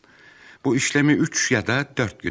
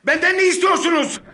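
very high, loud frightened cry; terrified shout; 7 dB louder than usual. Acted. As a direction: scream it in panic. Cornered by thugs.

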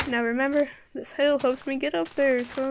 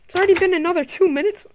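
sudden whisper; 7 semitones higher, 11 dB louder, faster than usual. Real, not acted. Surprised at how fast time passes.

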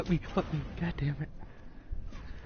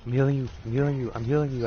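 rapid callout; 4 dB louder, faster than usual. Real, not acted. Calling out to teammate mid-fight.

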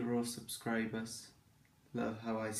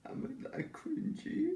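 high mock-offended question; 3 dB quieter than usual. Real, not acted. Mock-offended reply to "cringe.

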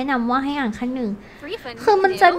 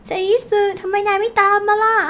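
put-on higher, louder boyish call; calling anime boy; 6 semitones higher, 4 dB louder than usual. Tanjiro calls Zenitsu to catch up, higher and louder. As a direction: shout to a friend lagging behind. Voicing character calling friend.

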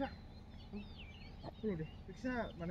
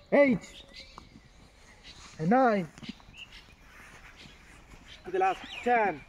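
straining with effort; 4 dB louder than usual. Real, not acted. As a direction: push out each number. Final hard reps.

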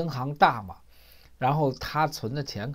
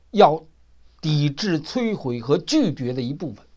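stern scolding lecture; 3 dB louder than usual. Retold or imitated. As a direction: build a lecture until it thunders. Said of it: "把那哥们儿给教训一通".

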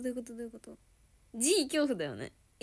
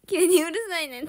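Kansai うるさいねん, higher and louder, stressing 急に; Kansai urusainen again; 6 semitones higher, 10 dB louder than usual. Shown as a demonstration. Imagining being told off suddenly, sharp Kansai dialect. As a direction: hit 急に then fling out うるさいねん. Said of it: "関西弁".

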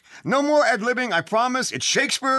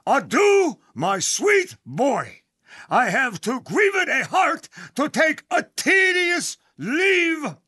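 melodramatic farewell; 4 semitones higher, slower than usual. Acted. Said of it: "You liked my death scene".

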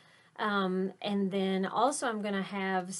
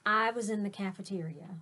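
grand announcement. A narrator's reading. Teacher hyping the cool beans' entrance to kids, showy announcer voice. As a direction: announce them like stars arriving. Reads picture book aloud.

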